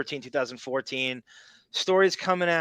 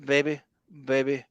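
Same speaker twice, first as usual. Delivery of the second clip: imitating baby talk; 6 dB louder than usual. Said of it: "I hate when he goes".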